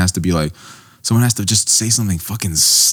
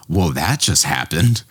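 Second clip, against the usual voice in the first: deadpan quip; 4 semitones lower, slower than usual. Retold or imitated. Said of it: "they're just like".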